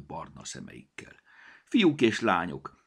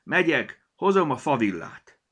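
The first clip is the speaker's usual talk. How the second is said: eager gnome; 7 semitones higher, 7 dB louder than usual. A narrator's reading.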